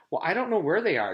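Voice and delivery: high, loud, fast protest; upset outcry. A narrator's reading. Jenny protesting to the stranger, high, loud and fast. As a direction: blurt it out near tears. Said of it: "Jenny cried".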